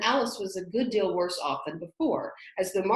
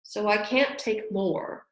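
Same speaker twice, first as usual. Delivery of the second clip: offended; 2 semitones higher, 3 dB louder, slower than usual. Acted. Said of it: "in an offended tone".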